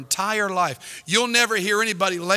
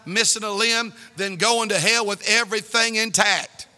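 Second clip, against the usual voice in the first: ordinary talk, nothing marked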